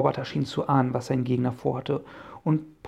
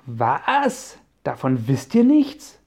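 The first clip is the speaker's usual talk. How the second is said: surprised; 6 dB louder, much slower than usual. Acted. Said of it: "wunderte sich der Professor".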